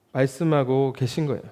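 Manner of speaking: ordinary delivery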